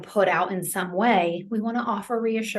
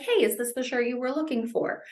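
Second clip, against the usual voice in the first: higher-pitched, casual friendly question; gentle reminder; 4 semitones higher than usual. Acted. Caregiver holding up a shirt to help someone dress, gentle reminder. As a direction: offer it lightly, as a helpful nudge. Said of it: "use a gentle reminder".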